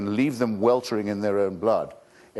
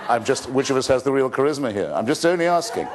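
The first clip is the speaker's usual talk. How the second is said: laughing; 2 semitones higher than usual. Real, not acted. Laughing joke on his own charm.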